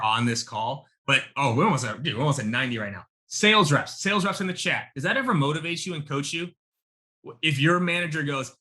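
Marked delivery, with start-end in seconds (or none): 3.3-6.5 calling out. Real, not acted. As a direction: hail the sales reps in chat. Calling out to chat.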